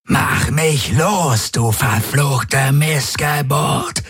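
slow high enraged roar at his captor. A narrator's reading. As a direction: roar it, straining against restraints. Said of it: "brüllte er".

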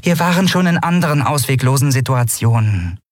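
softened high character voice; gentler tone. A narrator's reading. Nelen reminding them of past escapes, gentler tone. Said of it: "erinnerte Nelen in sanfterem Tonfall".

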